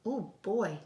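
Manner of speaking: put-on boy thrilled at his new frog; delighted boy. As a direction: burst out with joy.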